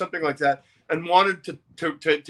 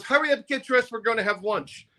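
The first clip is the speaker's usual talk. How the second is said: campy promoter; 7 semitones higher than usual. Retold or imitated. Promo man again.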